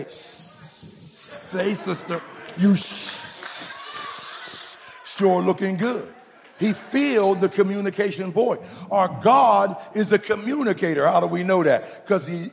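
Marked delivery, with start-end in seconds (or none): 0.0-6.1 hissing, smooth-talking snake; sly snake. Acted. Snake sliding up to another man's woman, sly hiss. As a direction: draw out the S sounds like a snake sliding up. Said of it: "some snake will ... He'll slide up and say".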